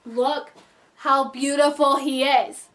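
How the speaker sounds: swooning. Shown as a demonstration. Gushing to viewers over the actor's photo, slow and dreamy. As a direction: linger on beautiful like you're melting.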